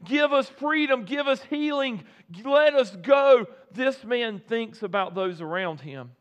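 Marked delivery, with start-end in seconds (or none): 0.0-3.4 pleading cry. Retold or imitated. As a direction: beg for release like a condemned thief. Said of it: "most thieves would cry out and say".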